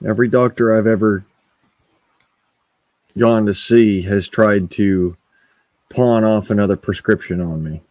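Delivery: talking around a cigarette; smoking while talking; cigarette in mouth. Real, not acted. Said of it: "I'm smoking a cigarette right now".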